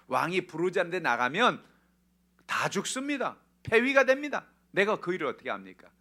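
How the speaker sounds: loud, high-pitched objection; acted panicky refusal, voice pushed up; alarmed protest. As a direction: protest as if your life depends on it. Acts Esther's alarmed protest.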